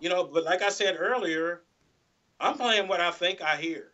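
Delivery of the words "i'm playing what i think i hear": "think" given deliberate emphasis; weight placed on "think"; stress on THINK. Real, not acted. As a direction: lean on the word "think". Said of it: "I emphasize the word think".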